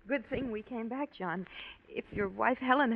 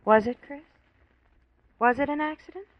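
louder pressing question; urgent demanding; 4 semitones higher, 10 dB louder than usual. Acted. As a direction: push him hard for the truth.

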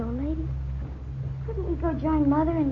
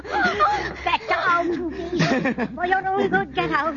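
crying defiance; much slower than usual. Acted. Driving off the intruder.

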